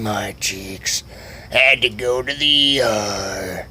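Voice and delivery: badly faked slow, weepy whine; mock crying. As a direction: drag out each phrase as if weeping. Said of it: "like, crying".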